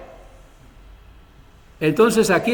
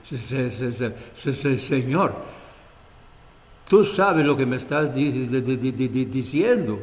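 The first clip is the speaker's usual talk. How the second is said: frightened stutter, softer and broken; stammering fear; 3 semitones lower, 3 dB quieter than usual. Acted. Ananias stuttering in terror at God's command. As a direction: stammer it out like a terrified man.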